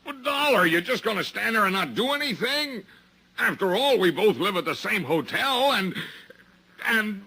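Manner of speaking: high, strained plea for help; anxious pleading. Acted. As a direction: beg him not to abandon you. Arrested man begging Dollar for help.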